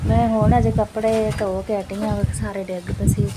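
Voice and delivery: loud dramatic lament to God; dramatic loud aunty. Real, not acted. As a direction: wail it out like a put-upon aunty. Wind knocks down washing.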